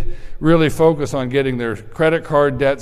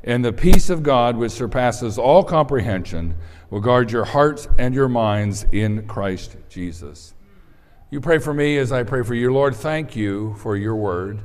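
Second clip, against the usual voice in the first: prayer. Real, not acted. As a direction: pray it gently to God. Leads a prayer.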